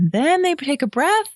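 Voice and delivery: high start sliding downward; metal voice rising, descending. Shown as a demonstration. Demonstrating the metal voice to cohost, up then falling. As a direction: leap up high after the breath, then descend. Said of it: "the metal voice starts like this".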